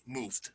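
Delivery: "moved" softly as one syllable; quiet "moved", closing on a d; -ed as plain D. Shown as a demonstration. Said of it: "just like that".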